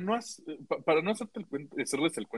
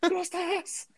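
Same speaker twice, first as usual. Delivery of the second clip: much higher, laughing nervous babble; nervous stammer; 10 semitones higher than usual. Retold or imitated. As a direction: stammer out a panicky friendly answer. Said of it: "Yo estaba así de".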